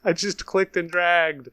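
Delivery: real exasperation, not yet shouting; exasperated protest. Real, not acted. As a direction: protest your own silly mistake, voice going up. Upset at own misclick, first take.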